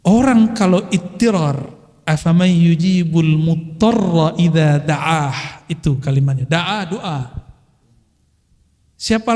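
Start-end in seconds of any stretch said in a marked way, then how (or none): 2.0-5.6 slow recitation. Acted. Preacher quoting Quranic verse.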